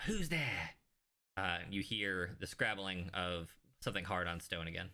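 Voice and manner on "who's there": higher-pitched acted call-out. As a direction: call out to whoever is in the dark. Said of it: "you call".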